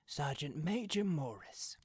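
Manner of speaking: hushed, breathless introduction; whispered. A narrator's reading. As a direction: whisper the name.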